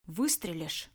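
low, urgent warning; hurried warning. Acted. Dictator at gunpoint to Red, urgently warning. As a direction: warn him off before he fires. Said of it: "быстро предупредил диктатор".

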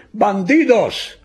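high, drawn-out battle yell; officer's sudden loud shout; shouted insult. A narrator's reading. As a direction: yell it slowly across to the enemy. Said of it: "urlò il primo ufficiale".

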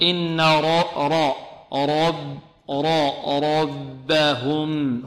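"را" very slowly drawn out with a full, heavy R; heavy raa. Shown as a demonstration. Teacher showing the rule of raa, slow heavy "را". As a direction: dwell on a thickened "را" in "ربهم". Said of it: "تفخيم".

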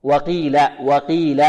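وقيل with a clean long ee after the qaf; least-heavy qaf. Shown as a demonstration. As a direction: recite وقيل without thickening the ee. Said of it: "وهي في أقل مراتب التفخيم".

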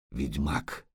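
very low, soft, dread-filled murmur; low looming threat. A narrator's reading. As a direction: sink the word down in fear. Dread thought again.

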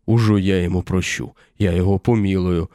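loud mocking roar. A narrator's reading. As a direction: bellow it with scorn. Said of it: "снова заревел десятник".

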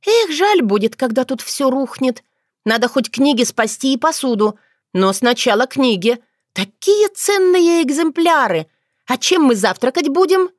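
put-on young witch fretting over books, lively; chattering young girl. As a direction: rattle on, excited about books. Otrada voiced higher.

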